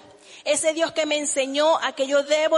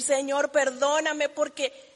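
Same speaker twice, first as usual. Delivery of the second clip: humble prayer. Retold or imitated. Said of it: "centrarme y decir".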